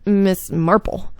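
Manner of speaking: slow, drawn-out put-on greeting; weird character voice. Greeting Miss Marple at the door, weird character voice. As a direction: draw the name out in an odd character voice. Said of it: "I made her voice sound really weird".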